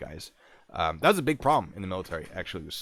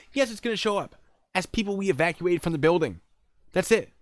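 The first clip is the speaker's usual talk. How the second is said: high, loud insistence; exasperated; 11 semitones higher, 6 dB louder than usual. Retold or imitated. Agent answers worry about his name, exasperated. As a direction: lay it down in a raised voice.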